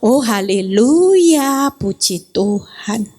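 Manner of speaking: wife answering her husband's taunt sweetly and slowly; sweet praise reply. Retold or imitated. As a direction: answer the insult with slow gentle praise. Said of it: "Saya bilang".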